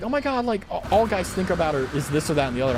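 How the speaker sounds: high mock airhead voice; mocking people. Streamer mocking how people talk about guys. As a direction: mimic people's whiny take on guys. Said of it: "people are like".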